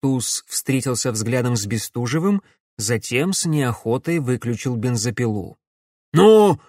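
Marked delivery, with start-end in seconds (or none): 6.1-6.6 much higher, loud snap; sharp yell. Acted. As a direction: shout him into hurrying. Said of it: "прикрикнул толстяк".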